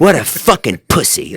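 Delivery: mock outrage, high and loud; =imitate a scandalized, cursing friend; Hajar upset. Podcaster imitating his gentle friend cursing, mock outrage. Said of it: "he's using, like, language I've never heard".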